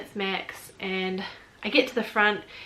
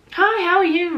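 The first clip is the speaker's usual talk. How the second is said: high, loud, cheery hello; chirpy welcome, pitched well up; really friendly greeting; 8 semitones higher, 9 dB louder than usual. Retold or imitated. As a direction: imitate an eagerly friendly official. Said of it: "Really friendly again".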